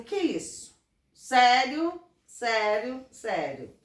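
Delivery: imitating an incredulous youth, loud rising "sério?", then dropping; mock disbelief. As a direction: act out his loud astonishment. Acted quote of young man's disbelief.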